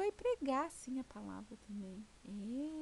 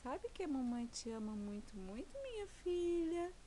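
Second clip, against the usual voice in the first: tender. Real, not acted. Mother tells baby she loves her.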